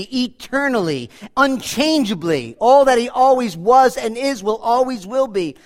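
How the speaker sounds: ordinary talk, nothing marked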